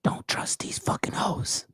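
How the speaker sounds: hushed, voiceless whisper; whispered dog commentary. Pretend. Owner pretending the dog gives its commentary, whispering. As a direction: whisper it like secret advice from the dog.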